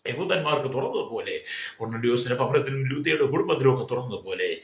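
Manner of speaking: steady rolling prayer over a long list; intercessory prayer. Acted. Pastor praying aloud over the congregation, steady and earnest. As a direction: pray on and on for everyone, unhurried.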